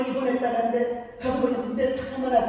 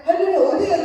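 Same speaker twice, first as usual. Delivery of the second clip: calling out; 6 semitones higher, 7 dB louder than usual. Retold or imitated. Calling lost grandmother on phone.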